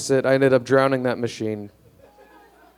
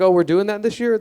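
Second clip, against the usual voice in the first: higher, clueless questioning; mock surprise; 7 semitones higher than usual. Clueless first-time voter to poll workers, in mock surprise. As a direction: act caught off guard by a basic rule.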